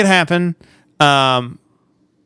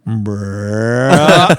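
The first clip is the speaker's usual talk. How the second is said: resigned; 7 semitones lower than usual. Retold or imitated. Kenny drops his head.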